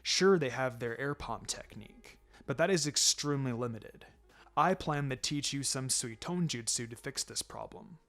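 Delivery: a lightly voiced, steady teacher reassuring his pupil; understated sensei, gentle but firm; calm mentor. Kakashi plans training.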